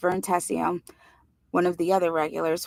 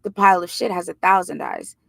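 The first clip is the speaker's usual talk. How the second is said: grave; 4 dB louder than usual. Acted. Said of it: "Teddy said gravely".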